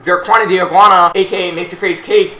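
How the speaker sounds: hype announcer. Pretend.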